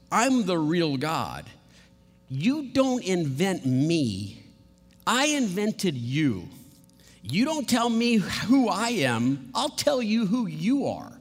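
slow, emphatic divine rebuke; stern God setting people straight, each phrase hammered; angry God. Acted. God tells people who invented whom, angry. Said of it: "you see how angry he would be".

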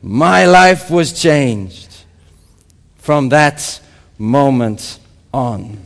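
put-on very slow, emphatic African accent. Convert testifying to the conference, slow African-accented declaration. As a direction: draw out each word in an African accent. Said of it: "in obviously African accent".

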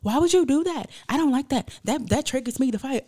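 high, loud offended protest; mock the friend's hurt, loud squeal; offended outburst. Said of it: "she was just so offended".

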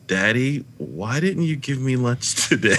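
mild imitation of a forlorn little kid; a touch of small-child sadness; sad child. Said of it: "just looking so sad and saying".

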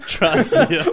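put-on high, loud, laughing French waiter accent; a laughing fake French accent; bad French accent. A French waiter recommending soup, bad French accent. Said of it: "What kind of accent's that?".

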